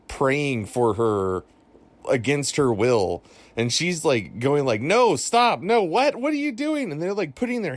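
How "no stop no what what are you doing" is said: high, rising mock panic of a struggling woman; imitated alarm, much higher; panicked protest. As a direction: retell her frantic pushback, pitched way up. Retold woman resisting prayer.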